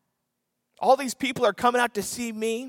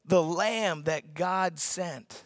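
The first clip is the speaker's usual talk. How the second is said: slow soft Look, the lamb that God sent; quiet reverent reading; 3 dB quieter, much slower than usual. Retold or imitated. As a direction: let it land gently. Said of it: "And when he says".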